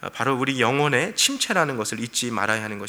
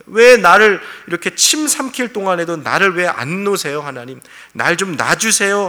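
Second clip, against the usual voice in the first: Job's plea to God, louder; louder exasperated plea to be let go; loud pleading complaint; 3 semitones higher, 6 dB louder than usual. Retold or imitated. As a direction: push it out as a desperate protest. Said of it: "그런 어투로 말하고 있는 것이 아니에요".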